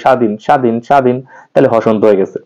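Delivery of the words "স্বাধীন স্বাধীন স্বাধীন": "স্বাধীন" closed quickly on the n; quick final n. Shown as a demonstration. Teacher repeating the word to show the spelling rule, quick final n. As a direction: cut the n of "স্বাধীন" short. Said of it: "দন্ত নটা তাড়াতাড়ি উচ্চারণ করি".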